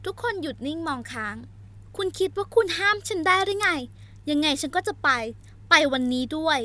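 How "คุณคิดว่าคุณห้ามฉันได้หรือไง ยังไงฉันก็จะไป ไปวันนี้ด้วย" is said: louder defiant accusation; angry retort. Acted. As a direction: throw the blame back at him. Heroine's furious retort.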